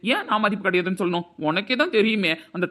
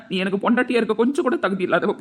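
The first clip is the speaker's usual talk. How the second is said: ordinary talk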